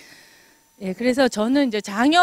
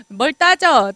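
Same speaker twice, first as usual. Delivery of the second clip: mock-irritated retort; 5 semitones higher, 9 dB louder, much slower than usual. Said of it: "따지는 거 제일 싫어해요".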